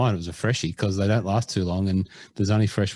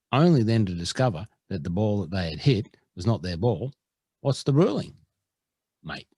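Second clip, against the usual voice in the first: put-on second try at an Edinburgh accent. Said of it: "Can I do that again?".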